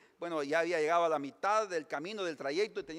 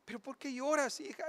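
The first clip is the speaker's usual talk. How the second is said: consoling wife; 8 semitones higher than usual. Acted. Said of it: "una mujer que está consolando".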